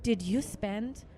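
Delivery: slow with long pauses; slow bank agent. Retold or imitated. Bank agent questioning her charges, slowly. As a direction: drag out each word like the agent. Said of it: "this is literally how she said it".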